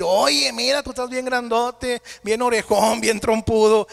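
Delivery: a lightly voiced small ant nagging the elephant; ant scolding.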